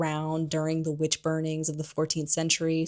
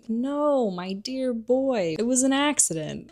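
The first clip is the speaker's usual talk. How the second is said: higher, slow, mock-soothing official; fussy minister; 6 semitones higher, slower than usual. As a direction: coddle the boy like a pompous minister. Fudge reassuring Harry.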